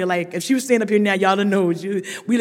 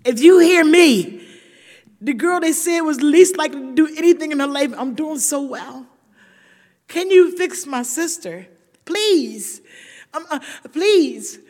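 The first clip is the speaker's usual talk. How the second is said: pleading prayer; 4 semitones higher than usual. Retold or imitated. Sister praying at the hospital bed, pleading. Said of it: "I went to prayer".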